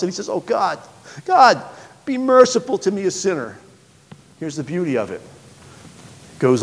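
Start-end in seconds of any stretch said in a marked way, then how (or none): 0.3-3.6 desperate plea. Acted. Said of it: "so desperate and so hopeless".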